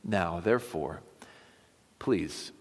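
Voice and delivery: measured, earnest reading of a plea; expressive Bible reading, phrases starting strong and falling away; scripture reading. Acted. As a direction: read scripture aloud with weight and pauses. Reads the scripture chapter aloud.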